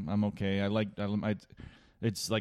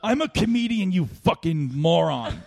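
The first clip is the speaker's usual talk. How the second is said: laughing mock yell; 7 semitones higher, 4 dB louder than usual. Yelling at heckler.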